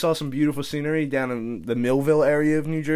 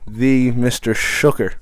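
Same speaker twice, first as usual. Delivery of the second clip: announcer voice; much slower than usual. Acted. Guest introduces himself grandly.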